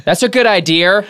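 Boston accent. Shown as a demonstration. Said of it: "you put R's in weird places".

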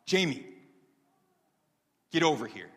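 high, loud holler across a room; yelled call. Retold or imitated. Woman yelling out to a young man to come over, yelled. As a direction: call out sharply to someone out of sight. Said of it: "she yelled out to me".

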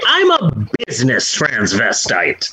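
low, dry deadpan of the famous bit; a light Eddie Izzard impression; Eddie Izzard quote. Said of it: "I would go more Eddie Izzard".

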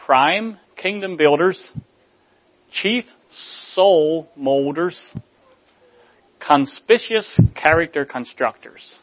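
slow, weighted list of titles; honoring mothers, slow and weighty; building list. Acted. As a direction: land each title slowly.

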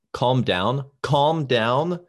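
loud, high, indignant; mock outrage. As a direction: shout it like an offended fan. Reads raging fan post.

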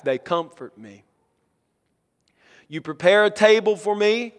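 measured, reverent psalm reading; solemn recitation to a congregation; scripture reading. Acted. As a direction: read it out phrase by phrase, with pauses. Reads the psalm aloud.

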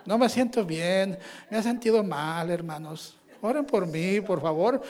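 slow, whiny plea with a half laugh; pitiful little voice. Shown as a demonstration. Preacher mocks sick churchgoer begging for pity, pitiful whine. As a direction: beg for sympathy in a mock weak voice. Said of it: "hacemos una vocecita para que tengan un poquito de lástima".

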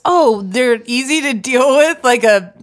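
slow, mocking admiration; mock enthusiasm. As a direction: pretend to be impressed, drawing it out. Mocking praise of low maintenance.

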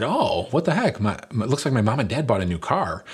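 high surprised exclamation; surprised girl. Retold or imitated. Teen girl to friends, surprised at the new car. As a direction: gasp it out like a thrilled teen.

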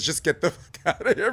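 Louis Gossett quote. Retold or imitated. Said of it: "Louis Gossett Junior Salute, he says".

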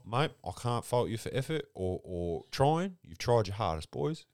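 soft consoling coach; lightly voiced gentle coach after a loss; mock coach. Imitating Stewie Doo consoling the boys after losing. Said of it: "he'd be like".

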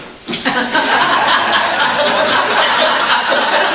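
breathless high laughter; real laugh. Real, not acted. Lecturer laughing at his sofa cushion joke, breathless laugh. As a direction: burst into laughter at the punchline.

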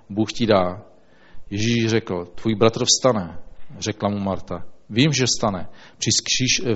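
measured, even Bible reading to the congregation; scripture reading. Acted. Pastor reads John to the congregation, calm reading voice. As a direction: read the passage steadily and reverently.

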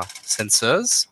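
sensors whispered, stressing the C spelling; whispered spelling aside. Shown as a demonstration. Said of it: "spelled with a C at the beginning".

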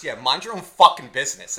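acted-out hostile comeback, punched loud; angry retort. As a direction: mimic an irate mother telling someone off. Acting out mother snapping back at him.

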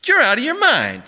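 high, loud protest; incredulous outrage. A narrator's reading. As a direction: shout in disbelief at the haggler. Barney repeats his outraged protest.

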